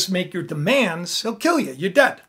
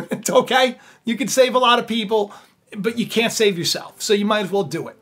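pushy Mordecai; 2 semitones higher, 4 dB louder than usual. Acted. Mordecai pushes Esther, laughing.

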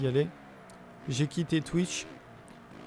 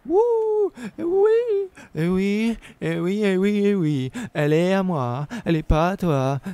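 triumphant cheer; 6 semitones higher, 7 dB louder than usual. Real, not acted. Celebrating taking first place.

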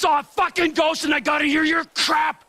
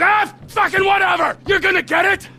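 exasperated shout; 4 semitones higher than usual. Acted. Trevor giving up on the list, shouting orders. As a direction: snap and yell orders.

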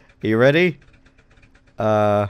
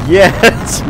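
loud, raised victory cry; triumphant shout; 5 semitones higher, 7 dB louder than usual. Real, not acted. Player's master plan works, triumphant shout.

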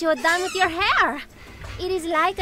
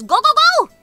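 loud and higher, shoo him away; shooing shout; 8 semitones higher, 9 dB louder than usual. Acted. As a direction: bark him out of the room. Lotus shoos her brother off.

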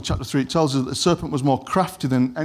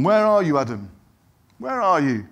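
God calling out; 3 semitones higher than usual. Acted. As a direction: call across the garden to someone out of sight. God calls out to hiding Adam.

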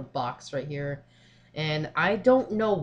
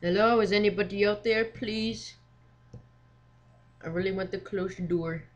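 raised, higher voice calling into the dark, uneasy; nervous calling out; 4 semitones higher than usual. Pretend. Player calling into the dark hallway, nervously raised voice. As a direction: call out as if scared no one answers.

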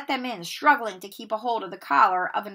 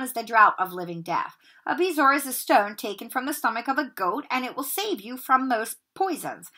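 higher, louder, cutting teacher's lecture rising to a bark; cold lecturing Snape; 4 semitones higher, 5 dB louder than usual. Acted. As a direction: lecture the dunce with contempt.

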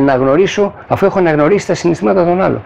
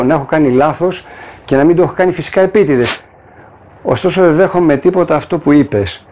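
calm reply. Retold or imitated. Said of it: "όλο αυτό τα λέω σε ήπιους τόνους".

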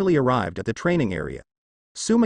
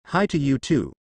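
angry retort. Acted. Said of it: "Sumihiko said angrily".

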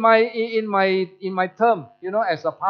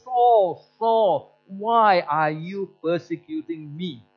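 voice from heaven; much slower than usual. Retold or imitated. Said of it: "he heard this voice saying".

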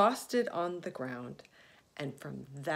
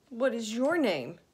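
polite; 5 semitones higher, 7 dB louder than usual. Acted. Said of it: "He tried to be polite".

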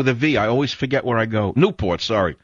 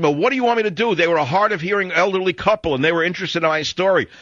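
a lightly voiced offended passenger, pitched higher; defensive passenger; 8 semitones higher, faster than usual. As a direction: whine it back as the talker who won't shut up. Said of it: "He said".

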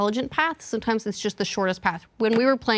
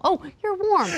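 mock surprised reaction; 10 semitones higher than usual. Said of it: "it will tell you, like, you're like, you're all".

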